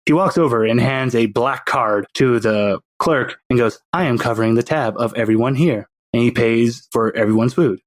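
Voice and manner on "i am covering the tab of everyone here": put-on baby villain. Baby with a pacifier courts Anita, in a lower sinister voice. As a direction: play the baby as a smug little schemer.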